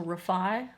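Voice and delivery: "refi" said reh-FYE, stress on FYE; "refi" with a weak first syllable and stressed FYE, rising; second-syllable stress. Shown as a demonstration. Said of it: "the emphasis is on the second syllable".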